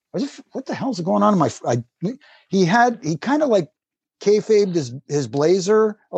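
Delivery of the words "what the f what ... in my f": mild retold alarm, quick and higher; startled. Wrestler retelling the moment his foot got wet, startled. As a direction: play a quick bewildered reaction.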